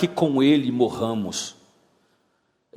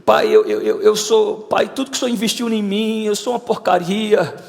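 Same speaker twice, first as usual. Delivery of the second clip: imitated pleading, a little higher; retold tearful prayer; 5 semitones higher than usual. Preacher retelling his own prayer to God, mildly tearful pleading. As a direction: beg God in mock self-abasement, stumbling on words. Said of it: "Dizendo lá, chorando".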